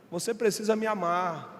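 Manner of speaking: usual speaking voice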